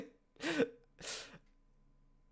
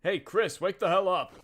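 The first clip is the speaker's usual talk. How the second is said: loud; 3 semitones higher, 6 dB louder than usual. Acted. Waking sleeping friend loudly.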